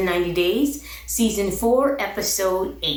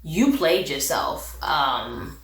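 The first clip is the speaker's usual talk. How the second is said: imitating unimpressed in-laws in a low voice; low, disapproving mock scolding; not having it; 7 semitones lower than usual. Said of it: "they look like they not having it".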